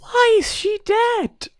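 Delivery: very high, slow, laughing protest; high incredulous whine. Real, not acted. Asking why she is dead, high laughing whine. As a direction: whine the question in amused despair. Reacting to bride dying again.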